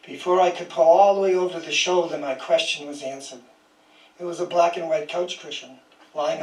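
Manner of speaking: measured, even poem reading voice; poetry reading. Acted. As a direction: read each line as a poem, letting it settle. Reads a poem aloud.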